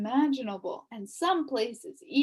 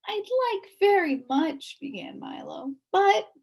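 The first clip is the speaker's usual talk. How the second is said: put-on 1 hesitant boy; 10 semitones higher, 4 dB louder than usual. A narrator's reading. Milo hesitantly interrupted.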